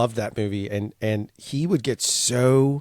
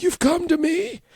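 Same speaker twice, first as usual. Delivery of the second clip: terrible mob boss impression; Godfather. Dad doing the voice for his kids, hammed-up impression. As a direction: put on a strained movie don voice, badly. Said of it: "I have to do the voice of".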